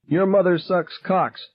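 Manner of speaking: high, slow shrieking insult; screamed. A narrator's reading. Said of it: "Irma screamed".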